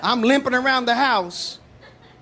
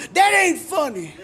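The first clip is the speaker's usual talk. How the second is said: angry redneck; 6 semitones higher than usual. Retold or imitated. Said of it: "He stands up and goes".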